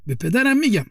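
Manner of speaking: put-on crying child. A narrator's reading.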